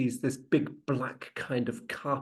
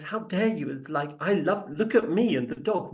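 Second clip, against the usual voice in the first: higher-pitched, mock-offended protest; acted indignation; 4 semitones higher than usual. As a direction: take offence with a raised pitch. Rep is offended in return.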